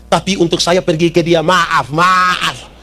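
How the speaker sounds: flat "maaf, maaf" as a firm no; old man refusing to visit his rival, firm refusal; stubborn refusal. Retold or imitated. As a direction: refuse politely but firmly, no way.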